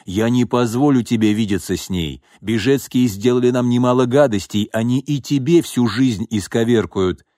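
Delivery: firm, rising anger; stern father voice. Acted. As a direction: forbid it with mounting heat. Father forbidding the girlfriend.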